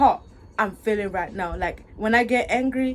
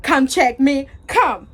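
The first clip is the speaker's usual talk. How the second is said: louder, punched-out dare; defiant challenge; 5 dB louder, slower than usual. Real, not acted. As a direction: dare them to come over. Challenging whoever angered her.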